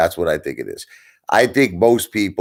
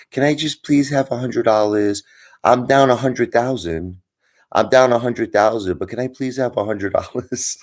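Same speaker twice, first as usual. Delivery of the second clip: higher, whiny mock plea; begging loser; 4 semitones higher than usual. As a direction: ham up a beggar asking for scraps. Mocking losing investors begging.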